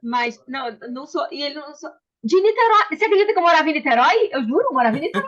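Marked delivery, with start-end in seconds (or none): 2.2-5.3 high, loud and fast, bursting with delight; can you believe it, thrilled; excited surprise. Real, not acted. Excited surprise at shared hometown.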